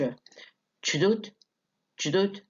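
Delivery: "Did you do it" as "chu-doo-it", rising; reduced, D turned voiceless. Shown as a demonstration. Teacher showing the changed D, contracted question. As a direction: start "Did you" with a "ch" sound. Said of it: "الد لما اتقلبت ش".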